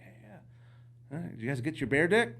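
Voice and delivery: high, fast, eager brag; excited bragging. Retold or imitated. Bragging to other hunters.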